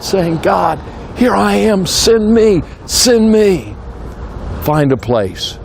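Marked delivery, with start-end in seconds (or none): 0.4-3.8 crying out to God. Retold or imitated. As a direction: call out to God, offering yourself. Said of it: "I can remember crying out".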